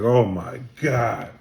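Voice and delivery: slow, drawn-out disbelief; stunned disbelief. Retold or imitated. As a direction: let it sink in slowly, stunned. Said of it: "I was like".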